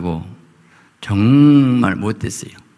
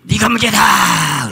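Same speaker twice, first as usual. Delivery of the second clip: 하나님 음성; 10 semitones higher, 4 dB louder, slower than usual. Acted.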